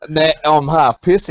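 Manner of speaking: slow tipsy slur. Real, not acted. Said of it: "noticed from the slurring".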